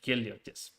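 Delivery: Heliotes repeated carefully after a translation voice; copying pronunciation. Retold or imitated. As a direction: echo Heliotes as a learner copying a model. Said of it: "tells me how to pronounce things".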